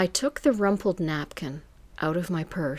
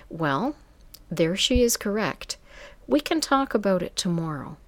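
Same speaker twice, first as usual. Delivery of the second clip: sultry voice. Acted. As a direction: purr it like a smooth madam. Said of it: "this sultry voice answered".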